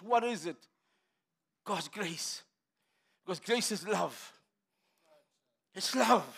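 usual speaking voice

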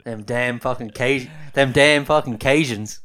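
loud, drawn-out comic exclamation; slow it down and belt it out; punchy mock-indignant holler; mock outburst. Jokily bursts out the team name.

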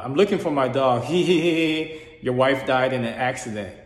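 hint of an eerie dream witch cackling the news; creepy witch voice. Dream witch taunting the dreamer about his wife, lightly mimicked creepy. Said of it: "I'm gonna try to mimic the best I can".

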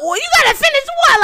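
high, fast panicked squeal; freaking out. Retold or imitated. Friend hearing her water broke, panicked high squeal. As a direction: blurt it out in a rushed, high panic. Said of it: "Like, I'm freaking out".

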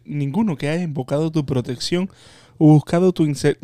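prayer. Real, not acted. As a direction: recite the prayer devoutly. Leads a prayer.

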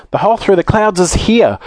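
high, urgent call; despairing shout. A narrator's reading. Joe pointing out the escape hole, urgent call. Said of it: "shouted Joe in despair".

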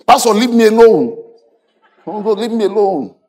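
high, loud imitation of a bereaved woman; mock wailing. Pastor mimics crying woman he consoled, high mock wail. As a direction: imitate a distraught woman's protest.

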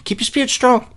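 a hammed-up pep talk pitched high; mock uplifting advice. Mock message, said twice.

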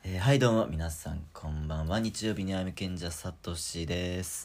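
cool voice. Pretend. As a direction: play it suave and cool. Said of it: "かっこよくいく". (かっこつけた声で)

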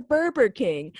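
"Burger King" said as "Burber King"; childhood mispronunciation. Retold or imitated. Retelling her own childhood mistake, "Burger" as "Burber". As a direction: swap the g in "Burger" for a b, no rolled R. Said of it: "so I called it Burger King".

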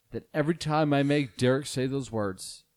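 a hint of a grave public apology, played for laughs; mock solemn apology. Host addresses seven listeners in a hushed mock-solemn apology. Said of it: "this is a special message to our listeners".

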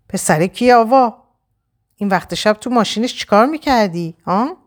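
angry growl. Acted. Husband growling at Ava about the car ride, angry. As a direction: growl it at her, jealous and furious. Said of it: "با خشم از لای دندوناش غرید".

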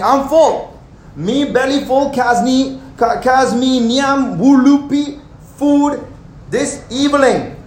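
put-on full, content Caribbean accent. Preacher voicing the fed crowd in a Caribbean accent. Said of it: "But you guys don't have this accent".

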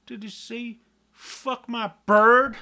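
high, baffled question building to a loud shout; confused listener straining to hear the lyric; baffled mishearing. Retold or imitated. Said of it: "I'm like".

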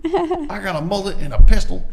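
high, loud hick brag; redneck bragger. Retold or imitated. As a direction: brag like a Joe Exotic type. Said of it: "It'd be like".

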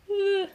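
high-pitched uncomfortable "uh"; creeped-out shudder noise. Real, not acted. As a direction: let out a high noise of discomfort. Shudder at being weirded out.

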